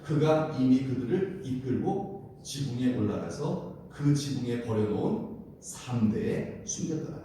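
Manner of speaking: slow, measured verse reading; scripture reading. Acted. Preacher reads the Bible verse to the congregation, slow and measured. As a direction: read the verse out slowly for all to follow.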